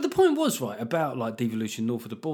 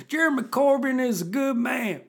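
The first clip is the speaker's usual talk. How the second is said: put-on high, loud American redneck accent; 11 semitones higher, 4 dB louder than usual. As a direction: play a rowdy American redneck. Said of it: "put a redneck accent on".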